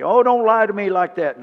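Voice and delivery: high, loud incredulous cry; disbelieving woman. Retold or imitated. Shunammite woman doubting Elisha's promise, high and incredulous.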